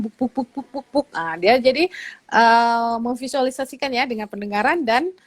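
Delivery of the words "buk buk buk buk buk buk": higher-pitched, evenly repeated thuds; storyteller's thudding sound effect; elephant footsteps. Shown as a demonstration. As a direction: imitate an elephant stomping closer. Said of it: "gini suara gajah datang".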